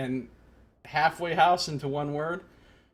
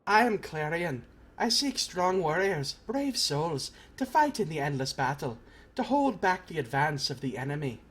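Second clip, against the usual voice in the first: put-on Clarion, earnest recruiter in assumed accent; accented game warrior making a pitch; put-on character accent. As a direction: declare yourself in a lightly put-on accent. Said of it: "the accent I'm trying to do".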